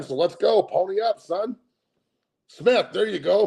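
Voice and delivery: loud, high, pumped-up street plea; hyped plea. Acted. Streamer calling out to a billionaire, high and pumped. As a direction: hype him up to pay, son.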